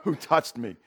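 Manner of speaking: parroting his question back with scorn; mocking echo. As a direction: mimic the question to ridicule it. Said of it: "kinda mock him".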